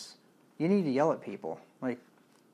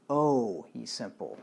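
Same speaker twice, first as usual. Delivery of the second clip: lamenting; slower than usual. Shown as a demonstration.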